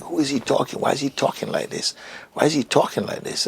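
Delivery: high-pitched, embarrassed bewilderment; exaggerated inner protest. Embarrassed seeker questioning the teacher inwardly, high-pitched protest. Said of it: "very exaggerated feelings inside".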